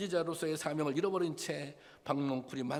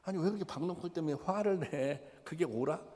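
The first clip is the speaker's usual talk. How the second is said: 하나님의 물음; 3 semitones higher than usual. Retold or imitated. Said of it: "물어봐요".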